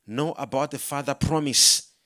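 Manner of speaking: firm, voiced repeat of a whispered message; retold Spirit's message. Preacher repeating the Holy Spirit's words to congregation, firm. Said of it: "The Holy Spirit whispered to me".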